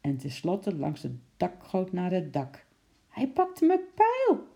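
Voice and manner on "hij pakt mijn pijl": high, drawn-out jubilant shout; cheering. A narrator's reading. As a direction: cheer like a thrilled boy. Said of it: "riep Henkie juichend".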